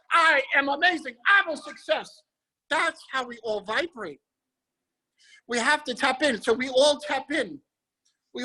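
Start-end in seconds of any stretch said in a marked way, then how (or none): 0.1-2.1 higher, bright confident lift; high vibration voice. Shown as a demonstration. Host showing high vibration to the call, lightly raised and confident. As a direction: sound proud and lifted up. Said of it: "speaking high".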